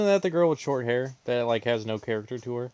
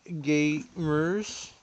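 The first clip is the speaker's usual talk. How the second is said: "gamers" with the first syllable leaned on like "gay"; stress on GAY; 2 semitones higher than usual. Real, not acted. Streamer greeting viewers with a pun, stress on the "gay" in "gamers". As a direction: draw out and punch the "gay" in "gamers". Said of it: "Emphasis on the word gay".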